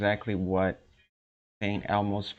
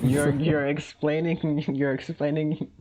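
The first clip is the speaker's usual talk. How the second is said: laughing; 6 semitones higher, 3 dB louder than usual. Real, not acted. Laughing while teasing.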